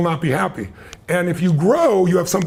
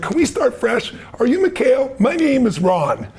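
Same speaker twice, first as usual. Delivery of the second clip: lightly voiced fresh-start introduction, pitched up; retold peace offering, higher, slowing on the name; Reagan; 7 semitones higher than usual. Reagan walks back to Gorbachev to start over, lightly acted introduction. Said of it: "then he walked back and said".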